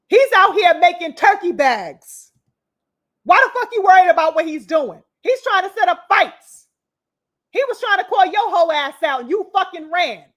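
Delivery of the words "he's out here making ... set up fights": angry rant. Real, not acted. Angry rant defending Shakur.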